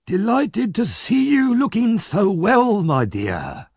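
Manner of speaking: high, slow, oily courtesy; mock-polite Fagin. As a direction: welcome him back with fake charm. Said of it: "bowing politely".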